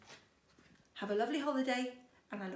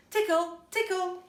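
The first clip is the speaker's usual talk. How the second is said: high, loud teasing sing-song; high, loud and playful; playful tickle voice; 9 semitones higher, 10 dB louder than usual. Acted. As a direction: tease as you tickle.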